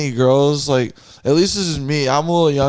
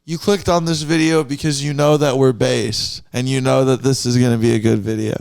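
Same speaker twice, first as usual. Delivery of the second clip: podcast intro announcer. Pretend. Making up a podcast intro on the spot, hyped announcer voice. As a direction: welcome the audience like a host kicking off the show. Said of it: "I'm gonna make you a podcast intro".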